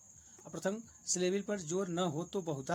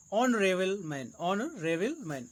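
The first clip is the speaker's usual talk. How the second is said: slow drilled repetition; much slower than usual. Shown as a demonstration. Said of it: "teacher repeats word slowly".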